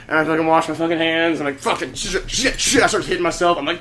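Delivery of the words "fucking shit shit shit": agitated self-directed swearing, repeated; frantic cursing. Retold or imitated. Man hitting himself in the bathroom, cursing. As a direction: curse at yourself in rising pitch. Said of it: "I'm just cursing, like, loudly".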